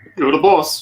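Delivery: lightly mocking, sarcastic. Replying in character to another character's request: somewhat sarcastic. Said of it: "somewhat sarcastically".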